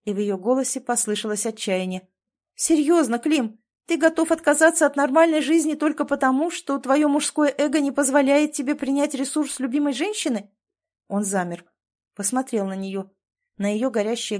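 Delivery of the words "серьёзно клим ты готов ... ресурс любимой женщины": higher, louder desperate outburst; blurted in despair. A narrator's reading. Wife blurts at husband in despair, high and loud. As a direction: blurt it out, at the end of her rope.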